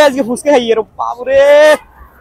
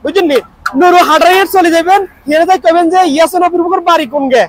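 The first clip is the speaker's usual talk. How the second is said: upbeat Noakhali dialect, noticeably higher; 4 semitones higher than usual. Pretend. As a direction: invite him to the market in Noakhali dialect. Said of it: "Noakhali ভাষা করলে".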